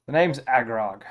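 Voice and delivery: lightly gruff Dragonborn; mildly gruff character introduction. Acted. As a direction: put on a touch of gruffness. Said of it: "gruff voice, he says".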